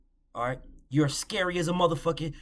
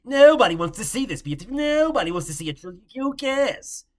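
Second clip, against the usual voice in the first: mock dismissive fan; 3 semitones higher, 6 dB louder than usual. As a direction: scoff it loudly like a dismissive fan. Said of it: "you won't hear anybody say".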